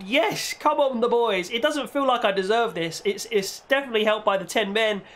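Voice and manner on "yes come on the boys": excited. Real, not acted. Celebrating the goal.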